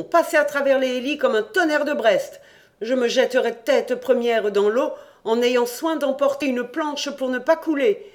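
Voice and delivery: panicked cousin shouting his escape scheme; feverish volubility. Acted. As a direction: rattle it off giddy with fear. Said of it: "Il parlait avec une extraordinaire volubilité".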